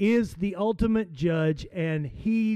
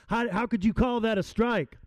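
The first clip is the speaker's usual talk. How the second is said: a hint of a big slugger pleading his case; Babe Ruth arguing; 3 semitones higher than usual. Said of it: "in essence what he said was".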